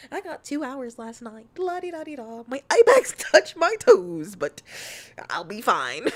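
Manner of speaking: high, mocking singsong of tired chatters; mocking chat. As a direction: tease them in a silly brag. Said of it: "Y'all over here talking about some".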